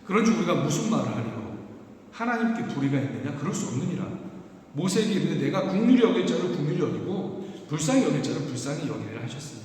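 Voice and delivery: solemn Bible reading voice; scripture reading. Shown as a demonstration. Pastor reading the verses to his church, solemn. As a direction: read the verses aloud to the congregation. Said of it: "제가 읽어드리겠습니다".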